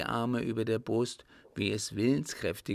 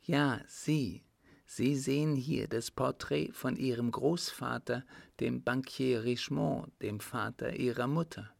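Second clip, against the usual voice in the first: lightly voiced countess, higher pitch; countess revealing; 3 semitones higher than usual. Countess reveals his grandfather to him, lightly voiced and higher.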